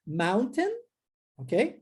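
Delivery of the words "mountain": "Mountain" with the T dropped, a stop instead; T swallowed. Shown as a demonstration. Teacher repeats the informal T-less form. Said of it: "eu engoli o T".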